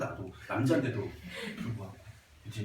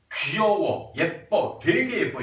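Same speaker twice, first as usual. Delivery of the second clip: imitating men's stock compliments, each word drawn out; 남자들 말투 흉내; 4 dB louder, slower than usual. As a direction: list them with rising emphasis on the last. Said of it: "이렇게 세 가지를 얘기해요". (남자들의 칭찬을 흉내 내며 또박또박)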